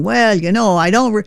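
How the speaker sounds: folksy Tennessee veteran teasing a Yankee; lightly voiced Tennessee accent; Tennessee drawl. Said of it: "here is Hobart saying".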